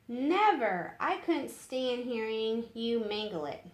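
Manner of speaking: firmly refuse, hitting the first word; read-aloud character's indignant refusal; emphatic refusal. Acted.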